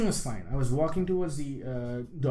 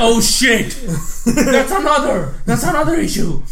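higher, louder, laughing through the words; laughing panic; 8 semitones higher, 9 dB louder than usual. Retold or imitated. Laughing while retelling panic.

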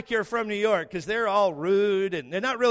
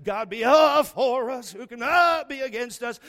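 louder and higher, caught up in the moment; excited churchgoer; 4 semitones higher, 5 dB louder than usual. Retold or imitated. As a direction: imitate an eager church lady. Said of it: "Debbie's doing the uh-huh".

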